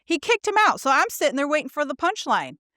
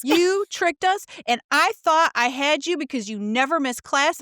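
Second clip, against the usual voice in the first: mock indignation; 4 semitones higher than usual. Student confronting the prank professor, mock angry and higher. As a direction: replay the outrage at being fooled.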